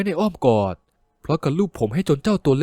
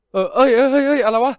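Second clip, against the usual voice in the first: startled annoyance; 7 semitones higher, 3 dB louder than usual. Acted. Startled friend snaps back.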